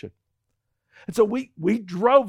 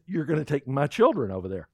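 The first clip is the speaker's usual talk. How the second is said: wife warning; 3 semitones lower than usual. Retold or imitated. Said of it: "when she says, "My children".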